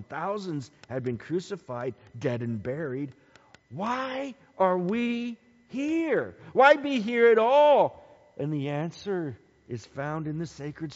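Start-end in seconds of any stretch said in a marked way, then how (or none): 3.7-8.0 slow question building to a ringing call; rising rhetorical cry. Real, not acted. Preacher to congregation, slow question swelling to a shout. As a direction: ask it, then fling it out to the room. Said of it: "preacher's rising rhetorical question".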